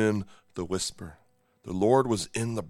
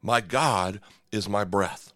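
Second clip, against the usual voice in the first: slow meaning; 2 semitones lower, slower than usual. Shown as a demonstration. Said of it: "the word literally means".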